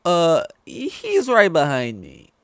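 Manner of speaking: drawn-out, loud, high punchline; comic deadpan. Retold or imitated. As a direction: stretch the punchline slowly and loudly. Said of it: "Joss Whedon or whatever with the whole".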